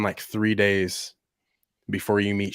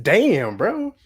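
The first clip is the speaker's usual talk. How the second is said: louder, higher mock outrage; 5 semitones higher, 7 dB louder than usual. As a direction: complain loud about the price. Annoyed fan complaining.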